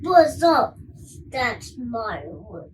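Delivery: loud then slow beast threat; child voicing the beast to the dragon, loud then slow. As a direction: growl it slowly as a monster. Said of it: "it said to the dragon".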